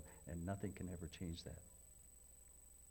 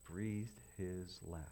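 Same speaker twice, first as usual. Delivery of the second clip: slow solemn; 3 semitones lower, slower than usual. Shown as a demonstration. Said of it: "Want to hear something really strange?".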